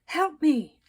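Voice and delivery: high, loud panicked yelp; pinned by the pig, yelping; squashed cry for help. A narrator's reading. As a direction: cry out as a pig lands on you. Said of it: "Mister Watson said".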